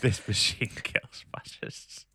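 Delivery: hushed, slow whispered slogan; slow reverent whisper. Acted. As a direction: breathe the words out like a secret. Echoes the guitar slogan softly.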